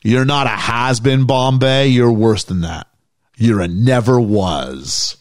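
slow, low, smug coach sneer; cold coach putdown. Retold or imitated. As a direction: deliver the insult slowly and coldly. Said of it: "Jack finishes by going".

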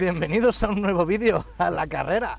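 loud, high YouTube welcome; hyped intro. Acted. Host opening a new video for viewers, hyped shout.

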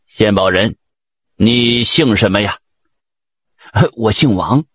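low, measured emperor addressing a subject; lightly voiced stately monarch. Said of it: "皇上高兴了".

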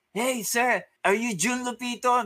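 high, polite guard asking. Retold or imitated. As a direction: voice the guard's question. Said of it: "The guard comes to us like".

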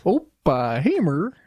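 slow, stretched mock Midwestern accent. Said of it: "This is my Midwestern accent".

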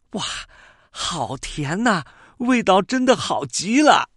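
high, bright delighted bird cry; happy exclamation. Acted. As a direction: squeal with joy over sweet fruit. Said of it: "高兴地叫了起来".

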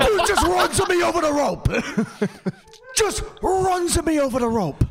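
high-pitched disbelief; incredulous. Real, not acted. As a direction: squeak out the outrage in disbelief. Incredulous replay of enemy play.

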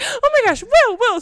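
high, loud, laughing call; mother calling her son away from the screen; mom calling out. Retold or imitated. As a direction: call him back from the screen.

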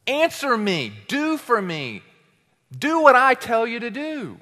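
insistent high, forceful commanding; imperious command. Acted. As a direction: order it as if bossing God around. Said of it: "It's a command".

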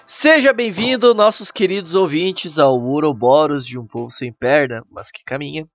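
upbeat welcome. Real, not acted. Opening welcome of new podcast block.

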